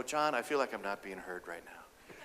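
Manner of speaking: low, soft and steady; low register. Shown as a demonstration. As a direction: drop the voice down calmly. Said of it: "Speak in a lower register and tone".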